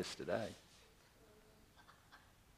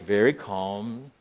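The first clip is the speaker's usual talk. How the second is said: very calm; 3 semitones lower, slower than usual. Retold or imitated. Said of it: "I am being the man of faith".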